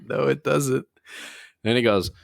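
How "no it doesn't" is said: incredulous reply. Retold or imitated. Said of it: "I was like".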